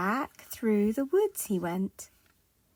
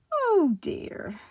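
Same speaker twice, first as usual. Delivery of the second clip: higher start falling away, kindly dismay; kindly concern; 9 semitones higher, 5 dB louder than usual. Acted. Kindly tramp finds someone fainted, gentle concern. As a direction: sympathetic sigh of the words. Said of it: "he was a kindly tramp".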